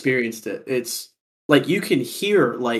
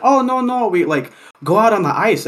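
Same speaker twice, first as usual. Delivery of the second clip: higher, lightly voiced Wisconsin coworker; mimicked older local; 7 semitones higher, 4 dB louder than usual. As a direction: wave off the worry like a local. Imitates local coworker reassuring him.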